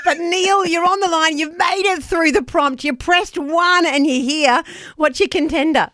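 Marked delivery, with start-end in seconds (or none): 0.1-4.6 cheesy phone prompt voice. Pretend. Hosts mock an encouraging phone line.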